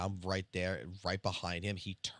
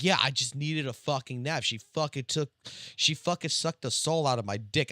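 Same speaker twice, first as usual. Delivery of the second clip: raised, louder mock buddy voice; lazy excuse; 6 semitones higher, 6 dB louder than usual. Employee excusing his nap to the boss, in a raised mock voice. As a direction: play the guy shrugging off a nap, pitched up. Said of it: "He's like".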